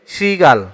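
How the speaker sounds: শৃগাল said as "sri-gal"; model pronunciation. Shown as a demonstration. Teacher answers the quiz on শৃগাল, modelling "sri-gal" carefully. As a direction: open শৃগাল on a clear "sri". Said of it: "শৃগাল শব্দের সঠিক উচ্চারণ রূপ কোনটি?".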